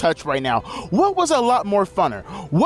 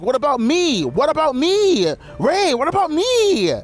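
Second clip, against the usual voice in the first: mock pleading; 7 semitones higher, slower than usual. Santos pleading, retold.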